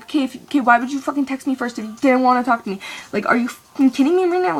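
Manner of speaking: fast, exasperated retold rant; mad rant. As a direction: rattle it off like you're fed up with him. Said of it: "Like, I'm so mad".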